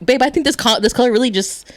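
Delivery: lightly put-on gushing partner; imitating boyfriend. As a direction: mimic your partner admiring the bathroom. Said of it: "And he'd be like".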